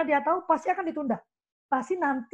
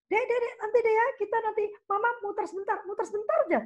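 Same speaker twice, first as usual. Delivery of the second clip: high, fast coaxing mom voice; mother coaxing child; 9 semitones higher, faster than usual. Retold or imitated. Mother fobbing off her child, high coaxing voice. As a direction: sweet-talk the child before slipping away.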